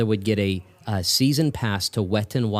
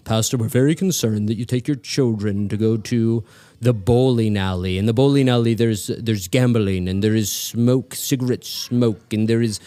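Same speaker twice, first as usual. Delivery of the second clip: scolding deacon; 4 dB louder than usual. Retold or imitated. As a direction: drag out each vice like a shocked deacon. Deacon scolds the old pastor.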